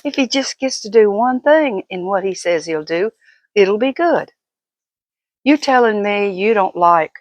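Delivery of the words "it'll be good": ordinary talk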